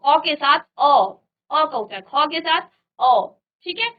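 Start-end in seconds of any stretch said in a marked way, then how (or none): 0.0-0.9 क followed by a loud, separate अ; teacher pulling the अ out of क; inherent अ sounded out. Shown as a demonstration. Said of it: "ये उच्चारण किसका करता है". 2.0-3.3 ख, then a slow, stressed अ; teacher drawing out the अ in ख; inherent अ sounded out. Shown as a demonstration. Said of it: "ये उच्चारण किसका करता है".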